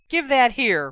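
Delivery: demanding. A narrator's reading. Ron wants his letter back from his sister, demanding. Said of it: "Ron demanded".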